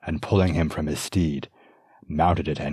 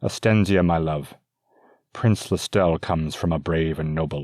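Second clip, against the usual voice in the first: firm father refusing; 3 dB louder than usual. Acted.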